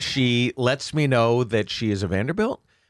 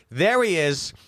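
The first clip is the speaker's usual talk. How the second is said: high call, less drawn out; mock calling out; 6 semitones higher, slower than usual. Woman repeats her find at the bar, mock calling out. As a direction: imitate the spotting call in a shorter form.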